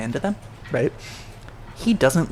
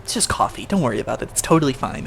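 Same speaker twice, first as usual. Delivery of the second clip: insincere reassurance; faster than usual. Acted. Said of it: "just like".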